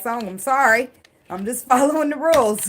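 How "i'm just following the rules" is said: laughing. Real, not acted. Laughs at her own joke.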